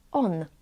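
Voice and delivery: "on" with the n made close to the palate; on near palate. Shown as a demonstration. Teacher shows ą before dz, c, ch, on near palate. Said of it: "it is also pronounced as".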